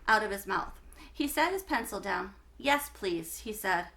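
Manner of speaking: clear, lively read-aloud for a class; story narration. A narrator's reading. Teacher reading a chapter book to her class, lively narration.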